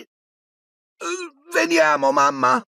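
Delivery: high-pitched answering call; high, whiny boyish reply; calling back. A narrator's reading. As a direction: call back to mum as a boy. Twins calling back to mother.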